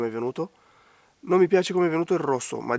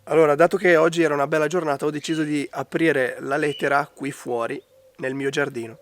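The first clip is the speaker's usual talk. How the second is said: a real, croaky cold voice; hoarse from a cold; faster than usual. Real, not acted. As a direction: voice worn by a bad cold. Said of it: "Scusate la voce, ma ho preso un raffreddore".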